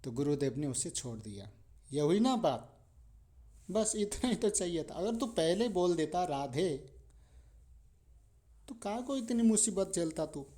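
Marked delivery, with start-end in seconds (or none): 1.9-10.5 higher, pleased exclamation; satisfied teacher, voice lifted high; triumphant guru. Acted. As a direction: crow over the win. Guru pleased after he says Radhe.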